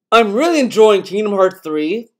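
hammy stage-actor reading; acting voice. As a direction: read it like a dramatic performer. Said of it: "I'm gonna do the acting voice".

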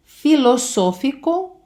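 "Філософіко" slow, stress on "со"; "Філософіко" stretched, stressed syllable clear; Spanish stress shown. Shown as a demonstration. Teacher shows Spanish stress to her students. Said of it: "звертайте увагу на наголос".

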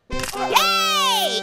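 high, gleeful yay; excited cheer. Real, not acted. Wins the level.

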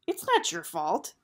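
insistent protest. Acted. Gregor protests to Eris.

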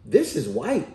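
high-pitched mock child voice; insistent kid, jumping up high at the end; little boy insisting. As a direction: imitate a kid correcting his mom. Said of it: "He said".

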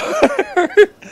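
high squealing burst of laughter; giggling fit. Real, not acted. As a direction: cracks up at the fanfic. Laughing at the story.

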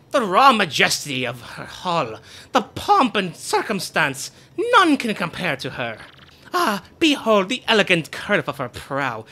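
pompous, theatrical ship-proud boasting; boastful Flavio. Acted. To Mario, pompous boasting about the ship. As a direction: show off the ship grandly.

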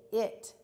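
"it" with a short, schwa-like I; short I sound. Shown as a demonstration. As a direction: sound out "it" as a word ending. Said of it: "It's the schwa sound".

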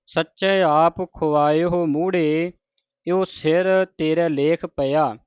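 slow, deliberate reading of sacred verse; measured scripture recitation. Shown as a demonstration. Teacher reads Gurbani for congregation to learn, measured recitation. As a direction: recite each word distinctly, resting between phrases.

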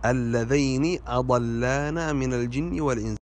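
"اللذين" as alladhayni; dual diphthong. Shown as a demonstration. Teacher repeats the corrected reading, "اللذين" said alladhayni. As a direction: say "اللذين" with ay and final i. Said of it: "والصحيح".

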